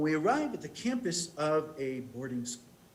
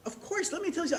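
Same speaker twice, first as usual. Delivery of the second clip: laughing; 14 semitones higher, 4 dB louder, faster than usual. Real, not acted. Amused recognizing the song.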